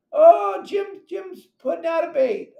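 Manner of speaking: high, loud excited call; excited shout. Real, not acted. Calling out to friends on a boat in excited shout. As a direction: yell it out like you just spotted them.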